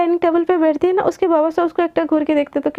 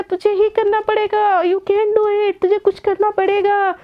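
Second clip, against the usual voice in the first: higher, drawn-out urging to oneself; self pep talk; 5 semitones higher, slower than usual. Acted. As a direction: psych yourself up, stretching the words. Giving herself a pep talk. (खुद को जोश दिलाते हुए)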